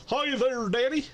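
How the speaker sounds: high-pitched sweet greeting; cute cat voice. Acted. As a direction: squeak it up high, all sweetness. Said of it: "she could say".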